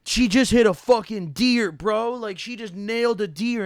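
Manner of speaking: panicked rush of news; retold frantic friend. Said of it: "he's frantic as fuck".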